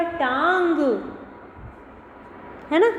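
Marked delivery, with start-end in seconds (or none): 0.0-0.8 टांग with a nasal aa; nasal taang. Shown as a demonstration. Teacher revealing the nasal word to students. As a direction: say टांग through the nose. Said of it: "मिलकर क्या बनेगा".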